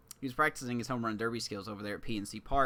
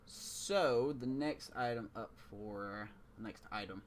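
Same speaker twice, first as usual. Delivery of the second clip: auctioneer; 3 dB quieter, slower than usual. Real, not acted. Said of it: "I sound like an auctioneer".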